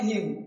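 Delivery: हिम said "him", ending on m; हिम as plain "him", n left silent; silent final n. Shown as a demonstration. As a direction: say हिम with no n after the m. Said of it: "लिखना है लेकिन बोलना नहीं है".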